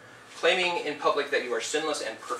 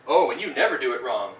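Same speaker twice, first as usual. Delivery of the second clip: imitated sarcastic jab, louder; 7 dB louder than usual. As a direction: throw the line back snidely and louder. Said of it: "that's approximate tone of voice".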